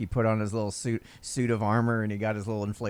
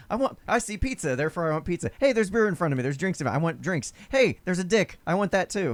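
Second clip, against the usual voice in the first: higher, childish mock voice of a greedy drunk; mock impulsive woman; 6 semitones higher than usual. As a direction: play a woman grabbing at everything she sees. Mocking impulsive woman's inner voice.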